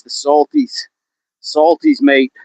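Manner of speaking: high-pitched put-on Aussie slang; mock Australian accent. Naming crocodiles in slang, high mock Australian.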